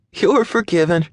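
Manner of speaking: high light forgiving voice; forgiving young woman. A narrator's reading. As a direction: let him off the hook. Maddie voiced in story.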